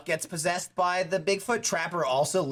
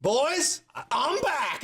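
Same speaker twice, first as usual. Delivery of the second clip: mock awakening; 9 semitones higher, much slower than usual. Huckleberry waking up.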